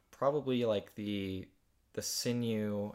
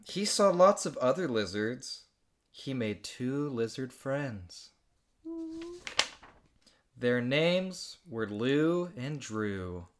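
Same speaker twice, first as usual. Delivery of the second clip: slow storybook reading; story narration; slower than usual. Acted. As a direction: read it like a children's book. Reads her childhood story aloud.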